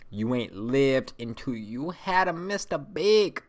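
slow, loud build rising in pitch; emphatic hype. Real, not acted. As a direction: draw it out and hype it up to the last word. Hyping a favourite chocolate bar.

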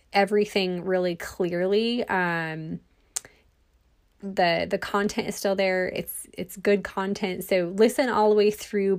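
breathless, walking while talking; catching breath between phrases. Real, not acted. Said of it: "I might sound like I'm out of breath because I'm walking".

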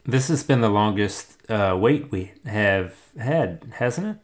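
glitchy robotic voice; choppy robot voice from a bad line. Real, not acted. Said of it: "Ignore my robot voice there".

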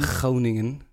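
Groningen with a scraped Dutch G; Dutch pronunciation. Shown as a demonstration. Friend confirming how Groningen sounds, Dutch pronunciation. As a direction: repeat Groningen with a throaty first sound.

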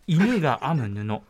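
slow, deliberate narration; travel show narration. Shown as a demonstration. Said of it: "これちゃんとナレーション風ですね".

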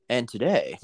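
mock newscaster opening; a light news-anchor intro. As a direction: announce it like a TV anchor. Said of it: "what's that voice that they use".

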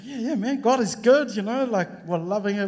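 a hammed-up cheerful yeah man; forced cheer. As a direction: oversell how great things are. His own cheery cover-up reply.

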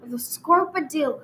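hammed-up rural Texas storyteller; country Texan accent, played for laughs; put-on Texan accent. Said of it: "I'm gonna change accents for a while".

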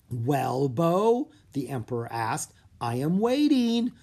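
lightly voiced, impatient villain emperor. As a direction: press him, drawing out the wait.

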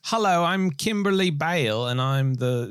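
lightly voiced new character. Imagining a new character barging into a Bond film, lightly voiced heroine. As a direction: introduce yourself like a hammed-up film heroine.

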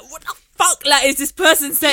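high mock-angry outburst; exasperated retold outburst; retold anger. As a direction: act out being baffled and cross. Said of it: "got really angry".

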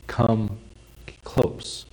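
soft intimate whisper; God's whisper, come close. Acted. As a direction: breathe it like a secret.

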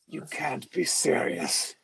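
low, slow, quiet put-on Plummer voice; Christopher Plummer voice. President's friend dismisses disarmament, low Plummer impression. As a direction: lightly mimic a disbelieving Plummer. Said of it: "And Christopher Plummer's like".

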